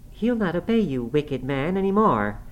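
put-on high-pitched young woman's defiance; defiant outburst. A narrator's reading. Girl defies her furious father-in-law.

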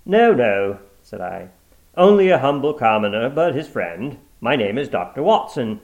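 firm correction. Acted. Watson correcting the woman, firm. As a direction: set her right firmly.

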